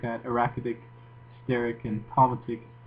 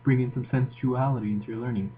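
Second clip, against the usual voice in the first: sultry Moroccan voice. Pretend. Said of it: "just listen to my Moroccan voice".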